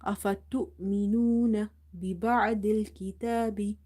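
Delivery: الكتاب with a long "taa"; stretched ta. Shown as a demonstration. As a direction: hold the ta vowel in الكتاب. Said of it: "we have to stretch the ta sound".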